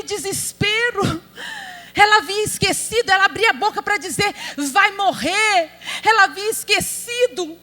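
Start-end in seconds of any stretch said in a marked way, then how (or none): 4.7-5.7 slow, crying "Vai morrer"; mock crying. Preacher voicing Hagar weeping over her son, crying. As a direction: wail it like a hopeless mother.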